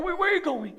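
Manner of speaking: ordinary talk, nothing marked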